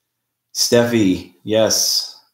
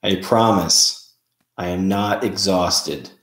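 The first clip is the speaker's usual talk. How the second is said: creepy slow voice; slower than usual. Pretend. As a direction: drag it out eerily. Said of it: "What if I did the live like this the whole time?".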